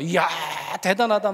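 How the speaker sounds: wowed, lightly re-enacted cheer; gushing excitement. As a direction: gush with admiration, stretching the first word. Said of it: "거품을 물고 좋아했어요".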